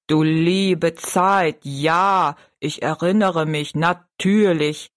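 a slow, kindly giant, remembering. Acted. (Riese, tief und langsam)

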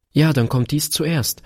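put-on high little girl with a smile; smiling. A narrator's reading. Daughter handing Papa a packet first, smiling high child's voice. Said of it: "lächelte sie".

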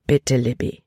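a hint of a tender, firm father; gentle but firm. A narrator's reading. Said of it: "Kapitän Norstads Stimme war sanft".

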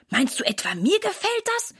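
mildly grumpy question, leaping up high; disgruntled retort; sullen. A narrator's reading. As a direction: throw it back, a touch indignant. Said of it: "antwortet Sarah missmutig".

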